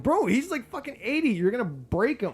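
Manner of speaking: high, loud protest; exasperated yell. Real, not acted. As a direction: yell at them to be careful. Yelling at the kidnappers.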